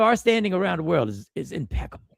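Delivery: deadpan sarcasm under the breath; sarcastic. Real, not acted. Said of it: "I'm being facetious".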